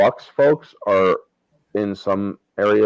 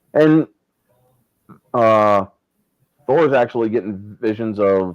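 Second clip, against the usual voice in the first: ordinary talk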